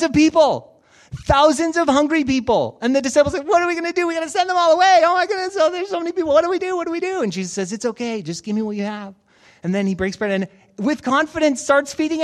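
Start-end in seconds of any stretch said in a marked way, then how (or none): 3.4-7.2 high-pitched flustered disciples; mock panic. Disciples panicking over hungry crowd. 7.7-9.1 calm Jesus. Retold or imitated. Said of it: "He's just so calm".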